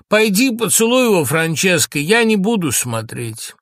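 high, loud cry, slowing and easing at the end; pained outburst that winds down; anguished. Acted. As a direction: yield to her in torment. Tormented Lorenzo yields to her.

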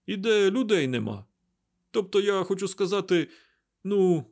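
put-on high, nervous young friend's voice; agitated Mat. A narrator's reading. Mat urges Rand to run far away, agitated. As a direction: babble advice in a high, uneasy voice.

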